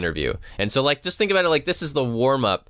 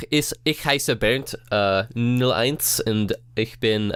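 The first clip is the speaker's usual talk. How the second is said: introducing yourself in German; halting German self-introduction; German accent; slower than usual. Acted. Guest coordinator introducing himself on the podcast in German, German accent. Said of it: "you immediately lost your accent".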